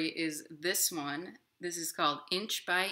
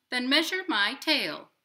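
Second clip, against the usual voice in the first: a lightly voiced robin, a touch higher; 8 semitones higher, 8 dB louder than usual. Robin questioning the inchworm, lightly voiced and skeptical. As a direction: skeptical bird. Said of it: "said the robin".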